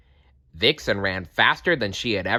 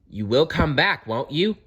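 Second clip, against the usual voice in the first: calling after her; 7 semitones higher than usual. A narrator's reading. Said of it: "Fox called after her".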